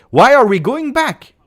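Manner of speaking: high, loud exasperated protest; frustrated shout. Real, not acted. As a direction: yell at the team again. Fan streamer protesting team going back.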